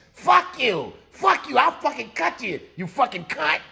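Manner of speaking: 少し高めに罵る怒りを軽く演じる; 悪態を次々と浴びせるように; mock enraged cursing. Cookie chases the girl with knife.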